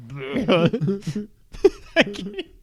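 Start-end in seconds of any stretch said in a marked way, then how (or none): 0.1-1.3 mock "bleh" noise; imitated "bleh". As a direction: blurt out a mocking bleh. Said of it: "instead you went".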